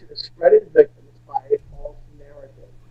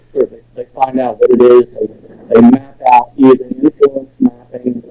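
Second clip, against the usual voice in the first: muffled. Real, not acted. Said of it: "it kinda sounds like you're muffled right now".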